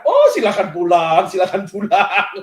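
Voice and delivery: slow teasing dismissal, laughing through it; amused mock dismissal, slowing down; laughing go-ahead. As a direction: chuckle while waving him off. Teasingly telling him to go home.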